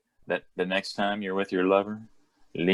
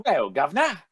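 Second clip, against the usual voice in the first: pitched-up mock Cockney greeting; Cockney accent; 5 semitones higher, faster than usual. Chiming in on friend's British bit, mock Cockney. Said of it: "Cockney accent there".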